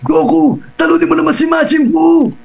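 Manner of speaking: high-pitched cartoon voice calling out a challenge; Kirin ng Dragon Ball. Shown as a demonstration. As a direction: put on a piercingly high anime voice. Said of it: "So, ganito yung boses niya".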